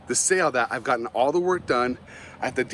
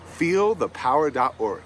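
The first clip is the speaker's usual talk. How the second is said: pleading face voice; slower than usual. Retold or imitated. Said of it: "I make a face a lot when I want something".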